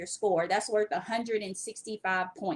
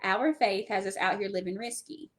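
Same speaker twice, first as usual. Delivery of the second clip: careful repeat; 4 semitones lower, 3 dB quieter than usual. Real, not acted. Host repeating a T-shirt slogan for her co-host, deliberate.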